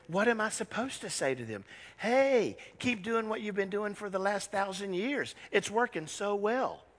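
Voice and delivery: sarcastic Jesus, dryly mocking the Pharisees; a touch of theatrical sarcasm; dramatic sarcasm. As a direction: lay the irony on thick, slowing at the end. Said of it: "I just was more dramatic than the Chosen".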